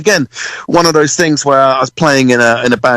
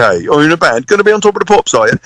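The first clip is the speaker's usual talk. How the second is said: teasing; 5 semitones higher, faster than usual. Retold or imitated. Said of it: "conversation goes with everyone in the U K".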